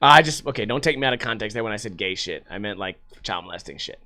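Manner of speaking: ordinary talk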